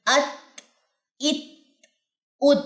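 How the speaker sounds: ات with breath released after the ت; breathy t demo. Shown as a demonstration. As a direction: let air flow after ات. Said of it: "تا پہ آپ کی سانس جاری ہوگی". (ات میں سانس جاری، ہمس)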